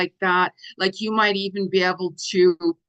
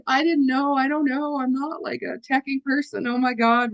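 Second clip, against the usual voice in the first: higher, mock-flustered fluster; flustered self-quote; 5 semitones higher than usual. Retelling her tech mistake to viewers, mock-flustered. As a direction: play up the clueless panic of a non-techie.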